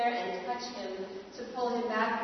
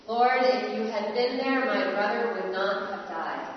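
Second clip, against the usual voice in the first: anguished plea; 6 dB louder than usual. Acted. Grieving sister's plea to Jesus.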